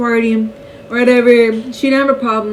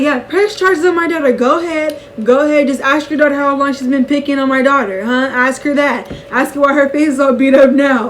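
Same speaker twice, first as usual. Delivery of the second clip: mom talking mess; 3 semitones higher than usual. Retold or imitated. Mom to the other mother, mildly defiant. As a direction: retell mom standing up to the school. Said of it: "my mom was talking a mess".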